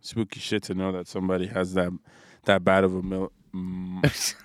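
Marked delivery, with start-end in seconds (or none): 1.8-4.3 tripping over the words; stuttering. Real, not acted. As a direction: stammer through it nervously. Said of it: "You're stuttering".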